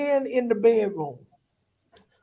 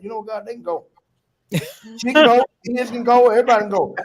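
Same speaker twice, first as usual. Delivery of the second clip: defiant prayer; 4 semitones higher, 4 dB louder than usual. Retold or imitated.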